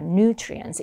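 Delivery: "nutrients" as NU-tri-ents; first-syllable stress. Shown as a demonstration. Teacher models the vocabulary word, first syllable of "nutrients" stressed. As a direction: hit the NU in "nutrients". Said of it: "이름절 강세 주시면 돼요".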